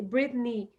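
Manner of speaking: "Britney" terminando num I forte e claro; "Britney" com o I final bem firme. Shown as a demonstration. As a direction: diga "Britney" puxando firme o som do I. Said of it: "pronunciar bem firme o som do I". ("Britney" com o I final pronunciado com firmeza)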